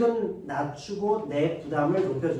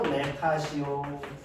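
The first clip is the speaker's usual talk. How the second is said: slow emphasis; 3 semitones lower, 4 dB quieter, much slower than usual. Shown as a demonstration. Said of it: "관용의 경륜을 다른 말로".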